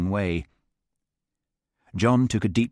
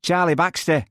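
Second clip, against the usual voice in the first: put-on child voice; 9 semitones higher, 3 dB louder than usual. A narrator's reading. Twelve-year-old boy.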